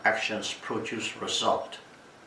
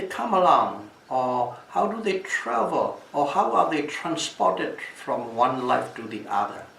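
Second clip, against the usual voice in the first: challenging king; 3 semitones higher than usual. Retold or imitated. King's challenge voiced.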